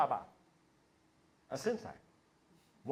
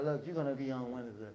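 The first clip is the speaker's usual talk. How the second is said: eloquent pitch; 6 semitones lower, 9 dB quieter than usual. Acted. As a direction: act a smooth-talking producer, low and measured. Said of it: "came to me all eloquently".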